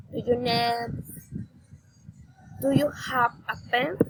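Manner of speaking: questions climbing on the last word, like "pen"; rising intonation. Shown as a demonstration. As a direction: lift "book", "help" and "pen" at the end. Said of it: "raising intonation".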